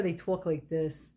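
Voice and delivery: a touch of New York or Boston accent; Northeast US city accent. Shown as a demonstration. Showing where the movie is set, mock New York accent. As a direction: lean lightly into New York "tawk" vowels. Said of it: "a New York City accent and a Boston accent".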